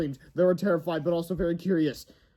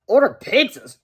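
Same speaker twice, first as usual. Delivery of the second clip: higher, louder question; surprised kid; 8 semitones higher, 6 dB louder than usual. Acted. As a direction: friend is puzzled. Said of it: "cried Harold".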